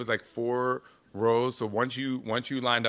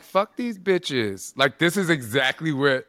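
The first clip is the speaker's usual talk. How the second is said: Aisha Francis hyping her up; 5 semitones higher, 5 dB louder than usual. Retold or imitated. Imitating her friend's hype talk before she walks on stage, high and loud. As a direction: play the brash friend who won't let her doubt herself. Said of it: "she'd be like".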